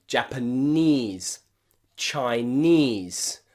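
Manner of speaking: "Japanese", "Chinese" with long ee in the last syllable; long E pronunciation. Shown as a demonstration. Teacher listing words for practice, long E endings. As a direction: model "Japanese" and "Chinese" carefully, ending in eez. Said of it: "why we pronounce these E".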